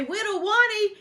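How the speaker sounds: "Whittle Wani" called out high and loud with W sounds; mock toddler "Whittle Wani"; teasing baby talk.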